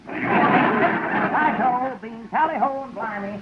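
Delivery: a hillbilly tossing out British slang; mock British butler. Butler agreeing to hang the fur, fake English. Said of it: "your man has a rather peculiar accent".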